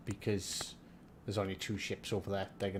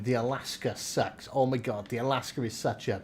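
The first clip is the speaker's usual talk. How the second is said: mocking whiners. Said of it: "everyone was saying".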